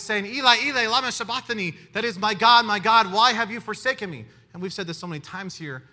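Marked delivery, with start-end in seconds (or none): 0.3-1.7 crying out the Aramaic, loud and strong. Retold or imitated. Preacher voicing Jesus on the cross, loud anguished cry. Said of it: "cried out with a loud voice". 2.2-4.3 loud cry. Retold or imitated. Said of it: "cried out with a loud voice".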